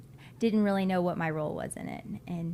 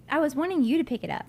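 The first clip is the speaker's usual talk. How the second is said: playful protest; 8 semitones higher, 6 dB louder, faster than usual. Real, not acted.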